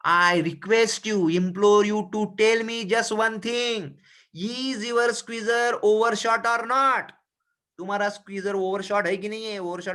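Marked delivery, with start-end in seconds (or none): 0.1-7.0 mild slow imploring plea, a bit louder; voicing Lomov. Lomov imploring Chubukov to judge the dogs, slow plea. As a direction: beg him slowly for one answer. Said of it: "चुबुको को कहता है".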